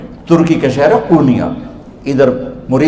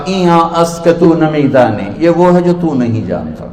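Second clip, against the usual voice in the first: arrogant. Acted. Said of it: "بڑے تکبر سے کہا".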